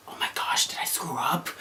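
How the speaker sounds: breathless whispered panic; whispered worry. Retold or imitated. Fearing a mistake in the test, whispered panic. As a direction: whisper it under your breath, scared. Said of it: "I was just like".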